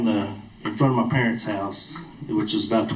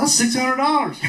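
high, laughing protest; complaining to the Lord about the price, laughing; 14 semitones higher than usual. Real, not acted. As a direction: squeak it out between laughs.

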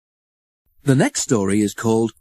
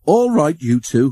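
laughing; 5 semitones higher, 4 dB louder than usual. A narrator's reading. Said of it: "laughed Edward".

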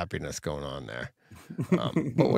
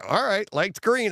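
retold relief; 11 semitones higher, 3 dB louder than usual. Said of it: "And I'm like".

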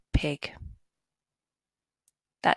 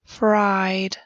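whisper. Shown as a demonstration. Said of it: "whispered first take of word".

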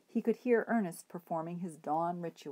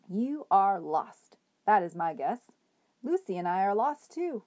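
hobo voice; 5 dB louder than usual. Acted. Bull speaks kindly to Edward.

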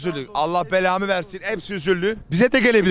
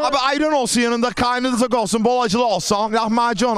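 street vendor call; 2 semitones higher than usual. Acted. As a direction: pitch the order to passers-by. Hawking lahmacun.

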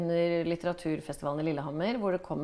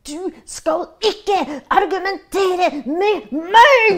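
very loud, high, slow shouted order; furious neighbour screaming at a teenage boy; 11 semitones higher, 14 dB louder, much slower than usual. Retold or imitated. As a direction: scream it at the boy, every word stretched. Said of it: "så jeg bare står og skriker".

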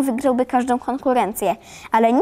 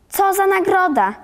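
higher-pitched, falling mock question; exasperated echo; 8 semitones higher than usual. A narrator's reading. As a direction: throw the question back like an irked teacher. Teacher echoes question, scolding Karolek. (zirytowane, wyższe powtórzenie pytania)

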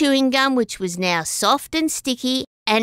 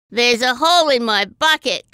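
mild cry; 4 dB louder than usual. Acted. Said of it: "cried Snapper".

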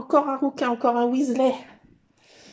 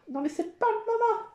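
much higher playful scolding; high-pitched protest; 8 semitones higher than usual. Real, not acted. Repeats it, higher, to the cat. (protestation aiguë)

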